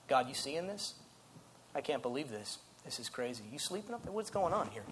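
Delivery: low, soft complaint to oneself; envious grumbling. Acted. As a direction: grumble under your breath, put out and incredulous. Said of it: "things like jealousy and envy".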